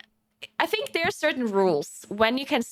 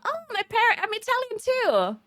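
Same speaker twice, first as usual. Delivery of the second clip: mock excited stranger; 10 semitones higher than usual. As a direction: imitate an over-eager stranger, pitched way up. Retold stranger reacting to news.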